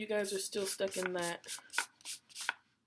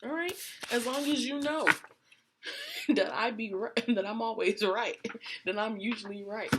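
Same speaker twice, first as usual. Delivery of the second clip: playful laughing I-told-you-so; laughing quote; 2 semitones higher, 5 dB louder than usual. Retold or imitated. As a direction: tease the partner through giggles. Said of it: "or maybe you're like".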